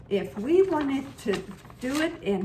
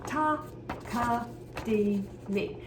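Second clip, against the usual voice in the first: rhythm syllables spoken. Shown as a demonstration. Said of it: "that all takes place on one beat".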